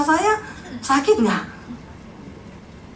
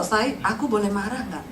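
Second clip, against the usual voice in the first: meniru suami, lebih rendah dan pelan; suami minta izin sopan; 6 semitones lower, 6 dB quieter than usual. Retold or imitated. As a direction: sedikit menirukan suami yang santun. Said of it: "marah aja dia permisi". (suami minta izin marah, meniru dengan suara lebih rendah dan lembut)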